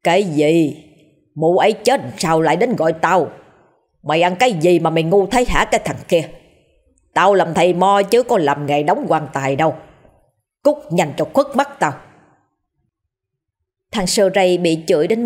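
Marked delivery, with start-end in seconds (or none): 0.0-11.9 angry shaman. Acted. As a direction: scold the boy with mild fury. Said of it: "Giọng lão thầy Mo chuyển sang tức giận". (lão thầy Mo mắng thằng Sơ Ray, giận vừa phải)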